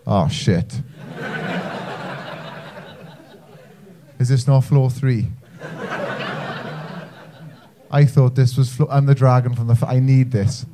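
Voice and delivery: lightly voiced low, sheepish dragon; mumbled embarrassment, pitched a little down; awkward dragon. Flag dragon at the wrong business meeting, awkward.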